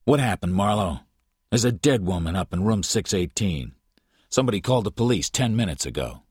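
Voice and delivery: tense, fast detective questioning; a hard cop pressing for answers; noir detective. Acted. Detective DeGarmo questions Marlowe.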